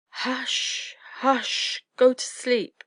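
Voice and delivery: insistent, high motherly hushing; mother owl. A narrator's reading. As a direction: shush the little ones back to sleep. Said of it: "he heard the mother owl".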